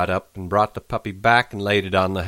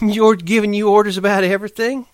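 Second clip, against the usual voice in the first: higher coy woman's voice; Curly's wife, teasing; 13 semitones higher, 6 dB louder than usual. Acted. Curly's wife teases Lenny in a higher coy voice. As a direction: tease him like a flirt.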